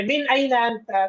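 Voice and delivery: slow, clear Arabic question; slow model reading. Shown as a demonstration. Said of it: "তুমি কোথা থেকে?". (ধীরে স্পষ্ট আরবি প্রশ্ন)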